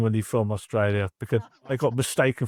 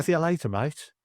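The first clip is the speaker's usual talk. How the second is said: higher, light fake Australian accent; a playful Aussie sign-off; mock Australian bye; 5 semitones higher than usual. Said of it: "how do you do bye in, in Australia?".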